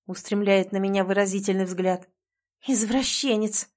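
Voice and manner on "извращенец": ordinary delivery, nothing marked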